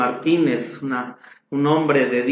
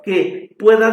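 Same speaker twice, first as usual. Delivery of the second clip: David's lament; 10 semitones higher, slower than usual. Retold or imitated. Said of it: "Por eso David decía".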